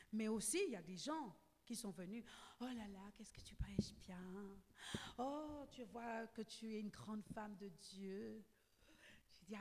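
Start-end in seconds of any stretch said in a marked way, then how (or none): 2.6-8.4 mock-sweet whispered praise; a lightly voiced flatterer, hushed; flatterer's whisper. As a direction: imitate a fawning admirer under your breath.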